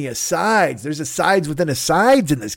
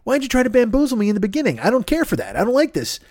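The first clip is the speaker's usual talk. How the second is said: mock indignant; 5 semitones higher than usual. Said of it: "which I'm like".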